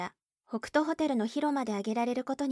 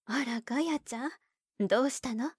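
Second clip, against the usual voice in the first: gentle mother. Acted. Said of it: "優しい安子の声".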